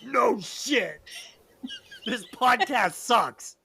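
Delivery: drawn-out, mock-serious verdict. Shown as a demonstration. Showing the new running joke, mock-serious. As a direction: deliver the put-down slowly, as if in earnest. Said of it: "supposed to be, like, you know, serious".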